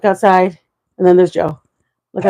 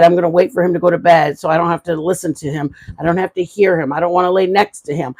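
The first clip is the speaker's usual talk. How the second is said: mocking complainer; 4 semitones lower, 3 dB quieter, faster than usual. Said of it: "I watch people say".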